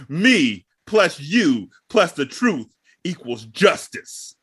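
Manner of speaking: slow cheesy lawyer ad voice; billboard lawyer ad. Retold or imitated. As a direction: sell it like a TV lawyer slogan. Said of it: "a lawyer would have up on a billboard".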